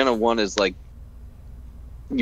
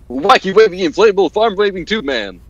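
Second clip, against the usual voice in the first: stiff robot voice, louder; 6 semitones higher, 6 dB louder than usual. Acted. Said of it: "You sounded so robotic".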